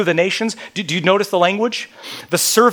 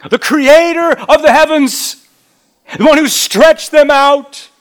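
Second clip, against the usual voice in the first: much louder and higher, ringing out; emphatic rereading; 9 semitones higher, 9 dB louder than usual. Shown as a demonstration. Preacher rereads the verse with full force, loud and high. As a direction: proclaim it boldly. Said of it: "Look at verse five".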